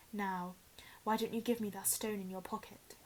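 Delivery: soft unvoiced coaxing; a sly whispered demand. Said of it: "the face said".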